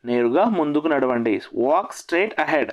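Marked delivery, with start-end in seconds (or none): 1.6-2.7 very slow, each word laid out; slow repeat. Shown as a demonstration. Teacher repeating the phrase so students can follow, very slow. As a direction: spell it out slowly for learners. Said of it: "teacher repeats phrase for learners".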